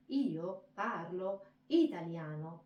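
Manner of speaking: slow "io parlo italiano", stressed word by word; wave-like emphasis. Shown as a demonstration. Teacher demonstrates waves, "io parlo italiano" slow and emphatic. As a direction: let "io parlo italiano" rise and fall in waves. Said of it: "it's like the waves".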